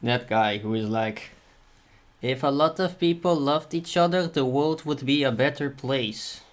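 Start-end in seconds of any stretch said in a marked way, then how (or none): 2.2-6.4 put-on high, strained Tommy Wiseau accent; Tommy Wiseau impression. Streamer mocking Tommy Wiseau's line, high accent. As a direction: mimic Tommy Wiseau's odd accent, pitched up. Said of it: "That was a horrible accent of him".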